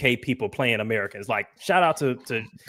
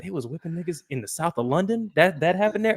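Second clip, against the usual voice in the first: incredulous quote; 6 semitones higher than usual. Retold or imitated. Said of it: "my homeboys looked at each other like".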